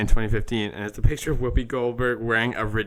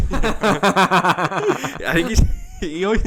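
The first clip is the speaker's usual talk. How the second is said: high, slow, laughing mock British accent; offensive British accent; 7 semitones higher, much slower than usual. Podcaster mocking Ricky Gervais, in a hammed-up British accent. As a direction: ham up a British comedian's accent. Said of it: "most offensive British accent".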